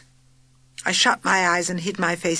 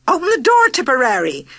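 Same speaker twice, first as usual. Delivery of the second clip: frantic shriek, much higher and louder; 7 semitones higher, 7 dB louder than usual. A narrator's reading. Aunt Doris shrieking at Tipperary as the bus tips, panicked. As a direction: scream it in panic. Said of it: "shrieked Aunt Doris".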